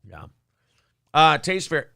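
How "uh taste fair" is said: talking around ice in mouth. Real, not acted. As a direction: mouth full of ice cubes. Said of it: "I got ice in my mouth".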